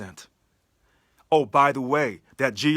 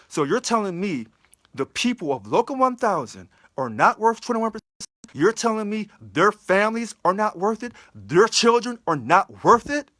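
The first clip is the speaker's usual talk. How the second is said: indignant; 5 semitones higher, 3 dB louder than usual. Real, not acted. Rising indignant questions.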